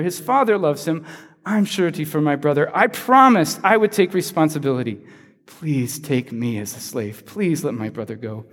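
Judah begging the lord, mild pleading. Retold or imitated. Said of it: "It goes something like this".

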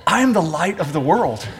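said offhand through a little laugh; a neighbour leaning over with a chuckle; casual with a laugh. Pretend. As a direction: pass it off like a joke to a pew neighbour. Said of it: "lean over and whisper in your ear".

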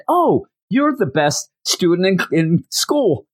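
high-pitched mock gushing mother; gushing mom. Gushing mom acted in retelling.

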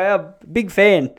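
loud, high, drawn-out fanboy praise; mock gushing. Nervous fan meeting Mick Gatto at the table, mock gushing. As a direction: lay the admiration on thick, slowly. Fawning over notorious man.

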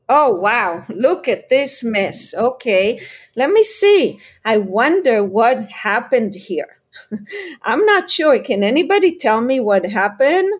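gently curious, bright wondering voice. Shown as a demonstration. Parent to child about a mess, curious. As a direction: sound genuinely curious, not accusing. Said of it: "now you are sounding as if you are curious".

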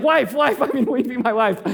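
flustered, laughing correction of the slip. Retold or imitated. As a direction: hurry to correct yourself with a laugh. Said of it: "I kinda choked in that moment".

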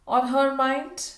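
slow, loud, high-pitched disbelief; drawn-out amazed query; incredulous echo. A narrator's reading. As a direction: repeat it as an astonished question. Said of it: "in her wonderment".

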